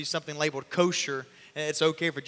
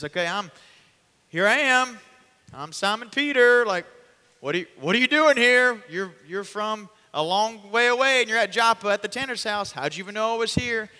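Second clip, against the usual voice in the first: loud, higher, bewildered welcome; excited; 6 semitones higher, 7 dB louder than usual. Acted. Peter meeting the three men at the door, loud and amazed. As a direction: greet the strangers in amazement. Peter greets surprised visitors.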